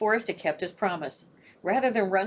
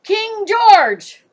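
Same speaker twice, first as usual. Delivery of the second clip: much higher and louder, squawking bird voice; raven squawk; 14 semitones higher, 15 dB louder than usual. Acted. Raven squawks out King George at last. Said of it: "and squawked".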